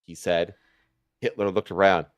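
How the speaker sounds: plain reading voice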